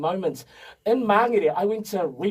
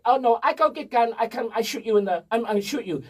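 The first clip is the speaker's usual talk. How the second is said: put-on Eastern European accent; 3 semitones higher than usual. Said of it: "and calmly, he just said".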